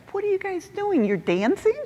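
squeaky voice of confused onlookers; puzzled locals. Retold or imitated. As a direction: locals puzzled by them shaking off sand. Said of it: "they look at us like".

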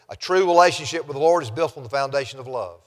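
brisk run through the whole statement; quick note. Real, not acted. Preacher quickly noting last week's point to the congregation, brisk. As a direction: say it quickly, in one go. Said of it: "Just note very quickly".

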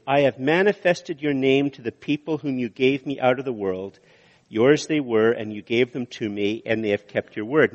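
brisk first read-through of the verse; a quick, unhurried-free scripture read; read fairly quickly. Shown as a demonstration. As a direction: run through the verse at an easy, quick clip. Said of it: "I said that fairly quickly".

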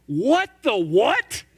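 floored by Jesus' reply; stunned disbelief. Real, not acted. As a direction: drag out what the what in shock. Stunned reaction to Jesus' words.

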